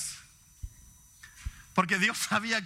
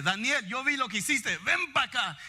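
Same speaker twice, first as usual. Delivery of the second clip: slightly higher, firm scolding call; a touch of stern scolding; 4 semitones higher than usual. Retold or imitated. God scolding Daniel, firm mock-stern summons. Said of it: "eso me va a asustar".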